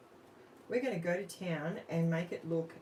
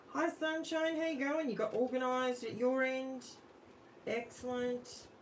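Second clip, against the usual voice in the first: bright greeting; 7 semitones higher than usual. Real, not acted. Greeting a viewer in chat.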